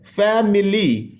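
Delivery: फैमिली slowly split into three syllables; measured, teacherly फैमिली in three beats. Shown as a demonstration. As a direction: break फैमिली into fa-mi-ly. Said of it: "three syllable word है".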